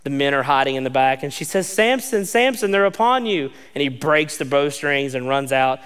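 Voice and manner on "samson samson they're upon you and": calling out. Retold or imitated. Delilah calling out warning Samson.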